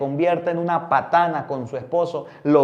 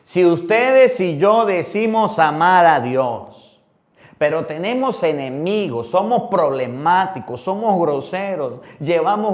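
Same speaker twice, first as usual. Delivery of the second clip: predicando fuerte; 3 semitones higher, 5 dB louder than usual. Acted. Predicación a plena fuerza.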